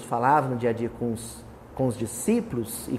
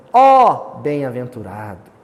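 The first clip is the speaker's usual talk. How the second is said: slow, louder declaiming exclamation; 4 semitones lower, 8 dB louder, slower than usual. Shown as a demonstration. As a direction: proclaim it like a line of poetry. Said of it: "função de exclamação". (exclamação declamada, lenta e mais forte)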